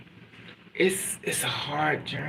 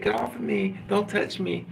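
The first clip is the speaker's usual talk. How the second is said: higher-pitched, upset push-away; acted rebuff; 5 semitones higher than usual. Pregnant girl to the man who hurt her, acted upset rebuff. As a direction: imitate her fending someone off. Acts out crying woman rebuffing someone.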